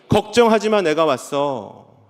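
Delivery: Jesus comforting disciples, slow and tender; tender promise. Acted. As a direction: speak comfort, then linger. Jesus' first words restated.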